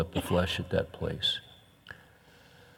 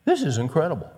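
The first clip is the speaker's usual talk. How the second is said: higher-pitched amazement; a touch of awed disbelief; stunned; 5 semitones higher, faster than usual. Acted. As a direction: say it as if stunned by the sight. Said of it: "he was just stunned".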